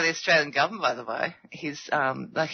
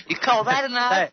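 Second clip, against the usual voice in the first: light Aussie movie-hero impression; Crocodile Dundee; 4 semitones higher than usual. Australian repeating a film line, light movie-hero impression. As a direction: throw out the film catchphrase. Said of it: "Yeah, Crocodile Dundee".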